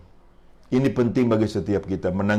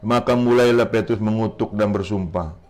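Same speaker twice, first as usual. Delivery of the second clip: steady narration with lifted quotes; scripture reading. Acted. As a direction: read the Gospel story out to the congregation. Reads scripture aloud.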